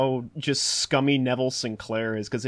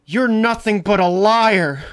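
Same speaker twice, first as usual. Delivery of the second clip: raised, louder voice, imitating an outraged accusation; mock accusing shout; 7 semitones higher, 8 dB louder than usual. Acting out Jenny confronting the unmasked villain, accusing shout. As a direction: throw the accusation out, high and loud. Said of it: "Jenny in particular goes like".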